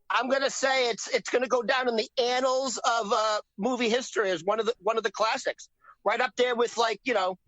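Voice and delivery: put-on lightly done Boston accent; a hint of Boston in a mock movie review. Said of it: "I'm doing my Boston accent".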